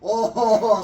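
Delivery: high, loud delighted squeal; giddy caveman. Acted. Humans watching Billy twitch, high giddy squeal. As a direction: squeal with dumb glee. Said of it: "and, like".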